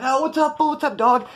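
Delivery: high-pitched, hearty hail; excited greeting. Retold or imitated. Homeboy showing up unexpectedly, excited greeting. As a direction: imitate a homie hyped to see you. Homie shows up greeting him.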